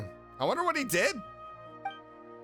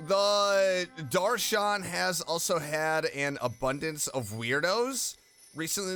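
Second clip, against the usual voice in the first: reading game text aloud; slower than usual. Acted. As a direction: read out the notice, stretching some words.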